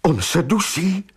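desperate, high-pitched cry; Maggie. A narrator's reading. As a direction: cry out in alarm. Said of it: "vykřikla zoufale Maggie". (zoufalý výkřik)

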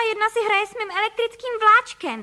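put-on high, loud boyish cry; outraged cry. A narrator's reading. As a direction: cry out over the train set. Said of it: "vykřikl Filip".

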